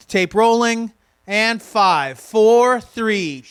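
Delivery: loud sitcom countdown, each number punched; stage manager countdown. Shown as a demonstration. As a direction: call the countdown to the studio. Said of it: "They say".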